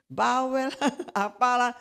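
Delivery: imitating a petty rant with a laugh at the end; mock grumbling. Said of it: "sampai saya juga ngoceh-ngoceh".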